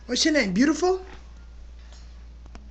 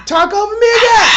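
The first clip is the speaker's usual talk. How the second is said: yelling; 4 semitones higher, 3 dB louder, faster than usual. Real, not acted. Yelling at a bird.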